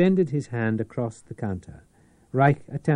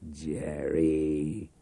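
patient; 6 semitones lower than usual. Acted. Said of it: "Reich said patiently".

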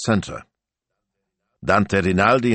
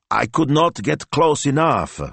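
miserable; 9 semitones higher, 3 dB louder than usual. A narrator's reading. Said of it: "said Ivano Maestro miserably".

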